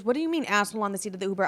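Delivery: quick puzzled question from a friend; confused friend. Retold or imitated. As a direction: ask it fast, baffled, repeating her words back. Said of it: "She goes".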